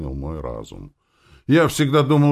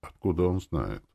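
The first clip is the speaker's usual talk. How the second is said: ordinary delivery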